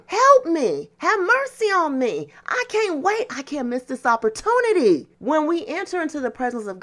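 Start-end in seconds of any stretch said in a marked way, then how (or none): 0.1-5.1 raised, pleading cry for mercy, rising higher; retold shouting plea. Blind man crying out to Jesus over the crowd, raised pleading shout. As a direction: call out desperately to be heard over the crowd. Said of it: "He's shouting".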